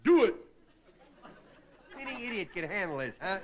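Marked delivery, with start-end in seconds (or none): 0.0-0.3 loud kingly shout; king roaring at lazy slaves; royal command. Acted. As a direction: bellow it down at the slaves. King commanding slaves, second take.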